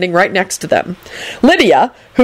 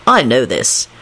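low, slow accusation; woozy confiding; 7 semitones lower, much slower than usual. A narrator's reading. Concussed Lupin telling on Dragomir, low and woozy. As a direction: confide it slowly and deeply.

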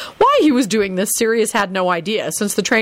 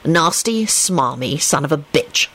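idle; 3 semitones lower, slower than usual. A narrator's reading. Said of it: "Lupin responded idly".

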